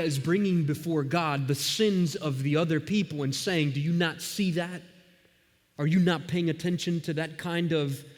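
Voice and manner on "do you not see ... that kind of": a hint of a whiny child; child complaining. Nehemiah complaining to God, lightly whiny child. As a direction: complain to God like a wronged kid. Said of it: "like a child complaining".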